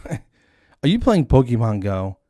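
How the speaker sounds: slow, loud repeat of her question; drawn-out mimicked question. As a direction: stretch it out in mock disbelief.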